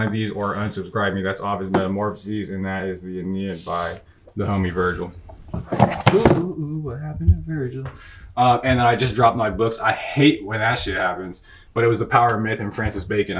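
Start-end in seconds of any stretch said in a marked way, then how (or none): 5.5-7.9 higher, startled little outburst; startled oohing. Real, not acted. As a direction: react to a sudden mishap, pitched up. Reacts to dropping books.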